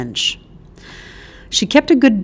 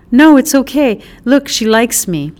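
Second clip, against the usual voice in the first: higher, louder eager protest; eager reassurance; 5 semitones higher, 4 dB louder than usual. Acted. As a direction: insist brightly she likes you. Child reassures dog owner.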